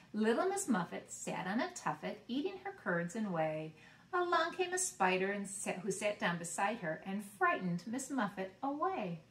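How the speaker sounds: put-on sing-song rhyme reading for kids; reading a nursery rhyme. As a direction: read it to little ones, bouncing the rhythm. Reads nursery rhyme to children.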